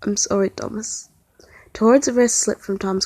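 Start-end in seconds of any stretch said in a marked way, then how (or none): 0.0-1.1 warm apology. Acted. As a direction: say it tenderly through fear. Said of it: "a warm, comforting smile".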